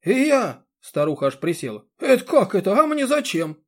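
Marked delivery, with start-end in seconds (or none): 0.0-0.7 high, loud startled yelp; an old woman so shocked she squats down; startled cry. A narrator's reading. 2.0-3.6 put-on high, loud shrieking old woman; a panicked old woman shrieking after the man; old woman wailing. A narrator's reading. Old woman baffled, shouting.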